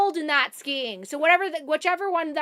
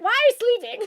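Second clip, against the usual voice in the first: laughing quote; 7 semitones higher, 4 dB louder than usual. Retold or imitated. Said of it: "She was like".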